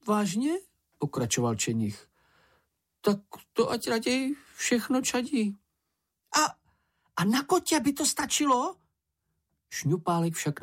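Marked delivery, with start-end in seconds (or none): 0.1-0.5 much higher little creature voice; Sniff's dismayed question. Acted. 3.0-8.8 much higher, fretful little creature voice; stubborn, then pleading; Sniff bargaining. Acted.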